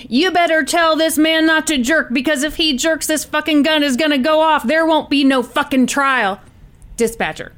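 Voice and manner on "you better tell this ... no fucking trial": lightly acted threatening gunman, higher pitched; mildly heated threat; Tony. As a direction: warn them as a hostage-taker, understated.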